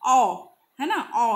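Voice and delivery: ओ held and said loud; a loud, held ओ to show the vowel; vowel demo. Shown as a demonstration. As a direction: belt out the ओ sound that opens ऑनेस्ट. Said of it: "ओ का sound दे रहा है".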